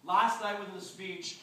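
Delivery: slow, distant off-mic delivery; off the microphone. Shown as a demonstration. Speaker recalling last night's speech, off-mic voice. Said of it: "moving away the microphone right now".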